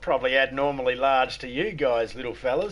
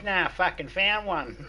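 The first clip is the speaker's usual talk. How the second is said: put-on slow, higher, smart-mouthed kid; cheeky kid; 6 semitones higher than usual. Kid answering the man with a cheeky punchline, slow. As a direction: drag out the punchline like a cocky kid.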